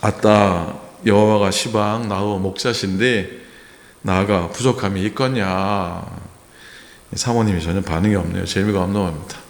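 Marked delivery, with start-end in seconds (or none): 0.0-6.0 a playful Jeolla countryman's take on the psalm; Jeolla dialect. Retold or imitated. Pastor joking with the congregation in a Jeolla dialect. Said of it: "전라도 버전은".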